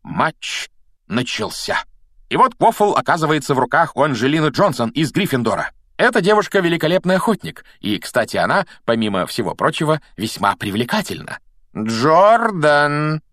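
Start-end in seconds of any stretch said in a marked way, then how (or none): 2.3-11.4 lively sports commentator, higher; match commentary. Acted. Lee Jordan commentates the match. 11.8-13.2 sharp stern call, louder; raised voice. Acted. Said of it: "повысила голос профессор МакГонагал".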